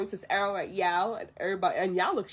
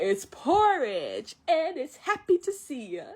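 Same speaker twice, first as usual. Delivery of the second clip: drawn-out, delighted announcement, rising higher; playful presenting; 5 semitones higher, slower than usual. Retold or imitated. Mushu serving Mulan porridge, playful and drawn out. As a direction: stretch it out, then lift it brightly.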